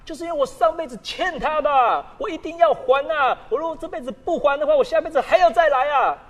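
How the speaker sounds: a battered woman insisting she owes a debt, lightly pleading; voiced abuse victim. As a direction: plead it like someone trapped by fate. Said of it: "听到有的被害人说".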